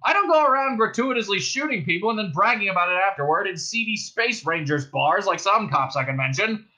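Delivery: loud, high indignant cop speech; bullhorn voice. A narrator's reading. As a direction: harangue them across a distance. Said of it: "and then the bullhorn again".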